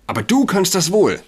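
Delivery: high, loud and shrill; shrill outburst, pitch way up. Acted. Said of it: "sagte sie schrill". (schrill, hoch und laut)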